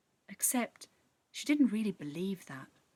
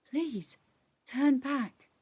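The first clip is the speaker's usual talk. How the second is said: pleading sprite; 5 semitones higher, 3 dB louder, much slower than usual. Acted.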